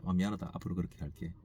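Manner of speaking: softly retold apology to his wife; quiet apology. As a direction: say sorry quietly, voice dropping away. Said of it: "그때는 좀 조용하게 얘기하는 거예요".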